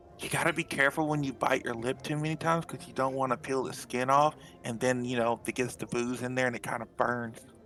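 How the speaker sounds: soft, confiding half-whisper under the breath. A character pulls someone aside during a toast to tell them something, half-whispering. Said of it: "I'm gonna whisper this to you".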